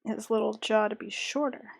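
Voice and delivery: muttering under the breath; half-whispered thinking aloud; quiet narrating. Real, not acted. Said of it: "I stop talking to y'all and start narrating my choices".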